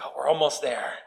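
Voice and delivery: cheerful and smiling; with a big smile. Retold or imitated. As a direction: say it with a grin. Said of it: "I say it with a big smile".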